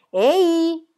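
loud high shriek at a hat. Acted. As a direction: yell at the missing hat. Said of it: "strillò".

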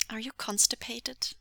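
fake-sympathetic lilt; mock sympathy. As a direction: feign concern to needle someone. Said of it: "look of mock sympathy".

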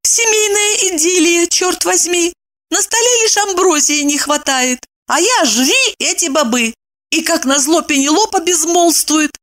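high-pitched hungry grumble; quiet grumbling wife. Acted. Hungry wife grumbling to herself, high and sour. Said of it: "втихомолку сердилась".

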